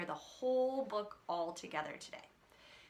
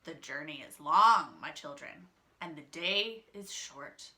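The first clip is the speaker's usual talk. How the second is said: sly wolf as grandma; 4 semitones lower, 5 dB louder than usual. Acted. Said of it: "The wolf answered".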